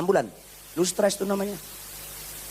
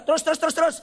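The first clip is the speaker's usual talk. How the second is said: mock guiding call; 11 semitones higher, faster than usual. Mocking the head-out-window guiding.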